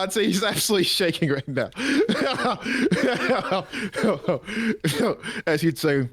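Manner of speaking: normal talking voice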